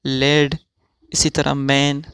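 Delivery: careful teaching pronunciation of लेड and मैन; English words read out slowly. Shown as a demonstration. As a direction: say लेड and मैन clearly with a short e sound. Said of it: "तो अब हम इसका तलफ़ुज़ पढ़ेंगे".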